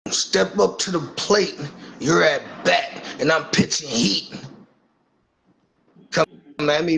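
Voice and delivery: building from calm to taunting; cocky wrestler calling out a rival; wrestling promo. Pretend. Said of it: "I gotta cut a promo on Briggs".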